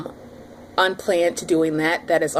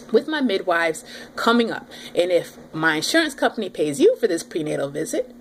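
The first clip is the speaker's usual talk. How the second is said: mild retold sass at the nurse; sassy hood attitude; 3 semitones higher than usual. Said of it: "the inner city hood chick in me is starting to come out".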